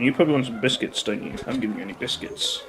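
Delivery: soft sing-song talk to a dog; coaxing pet voice. Real, not acted. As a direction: coax the pet with treats.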